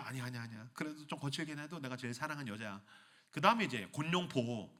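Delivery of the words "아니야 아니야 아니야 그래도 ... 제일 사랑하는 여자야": "아니야" said low and soft; king calmly protects his wife; soft low refusal. Acted. King answers the guard, soft and low.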